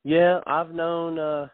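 slow mock singer's voice; imitating a singer. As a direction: give his lazy slow answer. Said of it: "He goes".

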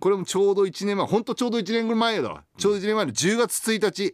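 high, loud, gushing mom character; excited high letter voice. Acted. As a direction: read it as a giddy, pleading mom. Reads letter in mother persona. (興奮した高い声のおかんキャラ)

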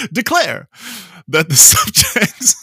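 slow, hammed-up English proclamation; mock English accent. Slipping into the accent while reading the Bill of Rights, mock English. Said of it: "wanted to read that in an English accent".

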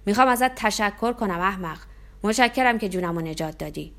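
put-on loud drunken roar of thanks; the pinning giant roaring his thanks. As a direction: bellow the thanks, shaking him hard. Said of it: "نعره زد".

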